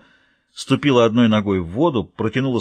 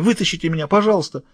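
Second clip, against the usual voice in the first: sobbing plea; 6 semitones higher than usual. Acted. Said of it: "всхлипывала Летиция".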